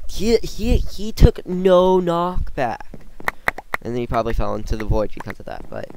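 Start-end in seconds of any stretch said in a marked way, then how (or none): 0.1-3.0 high and loud in disbelief; can't believe what he saw; shocked. Real, not acted. Shocked at opponent's hack.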